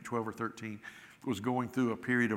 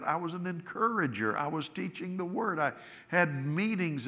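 higher, insistent self-defence; pleading his record, pitched up; indignant protest; 6 semitones higher than usual. Retold or imitated. Man defending himself to the Lord, higher and insistent.

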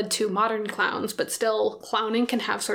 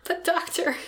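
tragic reveal; 6 semitones higher, slower than usual. Acted. Joke punchline as sad clown.

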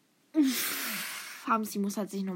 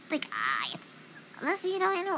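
imagined opponent's plea; 8 semitones higher, faster than usual. Acted. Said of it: "Der denkt sich nur so".

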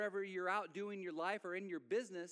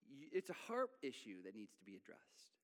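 hushed conclusion; 8 semitones lower, 5 dB quieter than usual. Acted.

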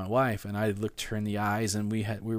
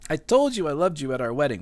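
defensive thought; 2 semitones higher than usual. Retold or imitated. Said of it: "we might have that thought".

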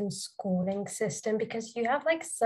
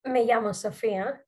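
Spanish, British tinge. Shown as a demonstration. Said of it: "say, like".

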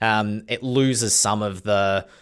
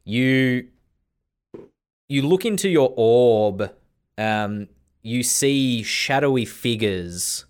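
scene narration; slower than usual. Acted. GM sets the scene.

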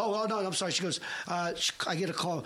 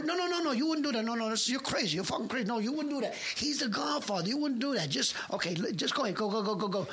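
much higher, thrilled director cutting in; excited director; 4 semitones higher than usual. Retold or imitated. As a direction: stop the actor, delighted and worked up. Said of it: "I pull him over the thing and score".

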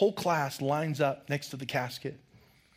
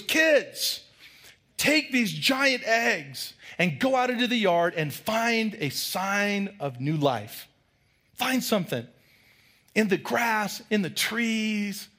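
put-on high, slow teacher voice talking to children; lightly voiced teacher, drawn out and high; coaxing a class of kids outdoors, slow and high; 7 semitones higher, 4 dB louder, slower than usual.

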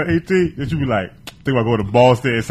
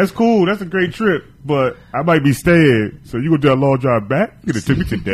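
mock polite brush-off; 2 semitones higher than usual. Friend imagining his reply to a long-drive offer, faux-cheerful. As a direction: play it sweet while dodging the trip. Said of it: "I'd be like".

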